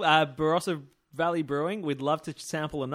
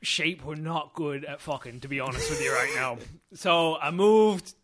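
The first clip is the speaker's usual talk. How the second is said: put-on Lancashire accent. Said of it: "Yeah, well, in Lanca".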